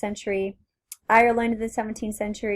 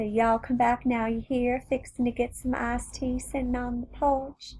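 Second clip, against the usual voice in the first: put-on lazy, drawn-out Southern US accent, higher; 4 semitones higher, 4 dB quieter than usual. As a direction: play a friendly Southern host on the porch. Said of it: "you think about the Southern accent".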